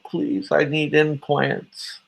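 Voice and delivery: mock pleading beggar. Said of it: "smile into the camera and say".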